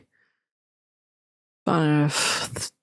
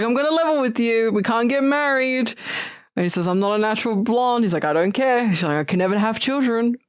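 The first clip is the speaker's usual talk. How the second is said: raised voice quote; 5 semitones higher, faster than usual. Retold or imitated.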